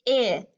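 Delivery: "I" as short ih, set apart; isolated vowel sound. Shown as a demonstration. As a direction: hold "I" briefly as the vowel in rib.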